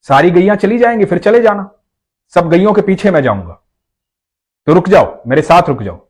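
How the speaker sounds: sweetly persuading him to stay; child's voice. A narrator's reading. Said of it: "तो बच्चे ने कहा".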